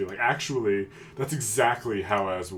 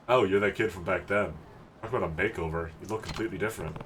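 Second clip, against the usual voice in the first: lightly voiced older man, surprised; 2 semitones lower than usual. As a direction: play the older guy talking down to a kid.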